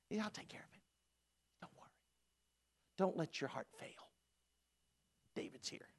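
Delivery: softly voiced, relaxed swagger; lay-back and reassure the king; David easing Saul with a grin; breezy confidence. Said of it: "confident David to Saul".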